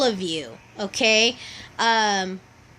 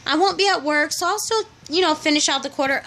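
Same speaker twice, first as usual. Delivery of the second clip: mocking her past self; 6 semitones higher, 3 dB louder than usual. Mocking her overambitious past self, high and carefree. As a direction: mimic your own naive optimism, pitched way up.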